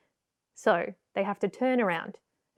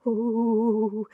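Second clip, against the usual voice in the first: scared noise. Acted. Puppeteer acting a scared puppet, frightened noise. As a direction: gasp and frightened ooh. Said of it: "Bit of scared noise".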